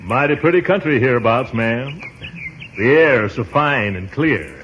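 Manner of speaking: hint of a cowboy; lightly put-on cowboy, courting a lady; Gary Cooper. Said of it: "I see what she means by Gary Cooper".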